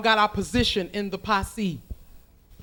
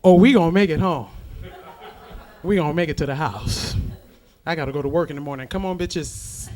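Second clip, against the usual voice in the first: driver friend reassuring; 4 semitones lower than usual. Acted. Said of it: "Her line is".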